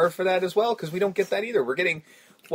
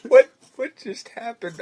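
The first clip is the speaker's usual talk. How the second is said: higher, louder dazed voice; lost Corgan; 7 semitones higher, 8 dB louder than usual. Retold or imitated. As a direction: sound suddenly lost. Imitating confused Corgan.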